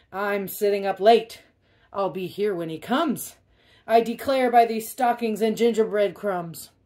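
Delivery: hammed-up pig voice, defiant. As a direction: declare it like a proud brat.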